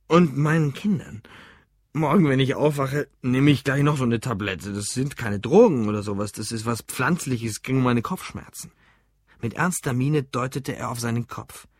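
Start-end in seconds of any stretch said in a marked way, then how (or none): 0.1-8.7 lightly voiced tipsy man; drunk, rambling. Drunk customer explains his pills to the barman, rambling.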